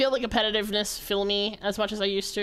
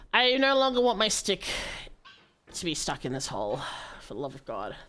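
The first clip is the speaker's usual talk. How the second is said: despairing plea. Acted. Despairing plea fading low.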